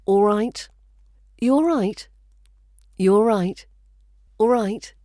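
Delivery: All right with the final t stopped in the throat; casual All right, glottal stop for the t; glottalized t. Shown as a demonstration. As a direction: drop the t of right into a glottal stop, You sometimes lost. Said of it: "it can become glottalized".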